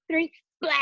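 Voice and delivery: big blah. Shown as a demonstration. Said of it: "we're gonna say blah".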